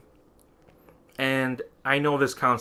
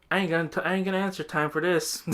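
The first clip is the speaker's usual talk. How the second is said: higher-pitched retold brush-off; lightly acted, higher refusal to engage; mock refusal; 6 semitones higher, faster than usual. Narrator brushing off a random stranger in the store, mock refusal. Own dismissive reply to stranger.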